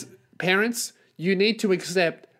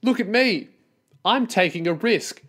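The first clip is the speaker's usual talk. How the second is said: mock show-off; 4 semitones higher than usual. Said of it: "Other than".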